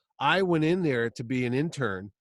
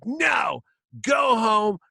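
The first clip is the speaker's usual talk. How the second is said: retold angry yelling; 5 semitones higher than usual. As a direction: yell it at the kid. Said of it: "he starts screaming at me".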